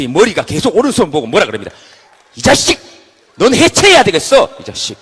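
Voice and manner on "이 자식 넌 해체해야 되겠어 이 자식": loud, higher, furious screaming; enraged yelling. Acted. Head screams at right hand, enraged. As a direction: lose it completely at the hand.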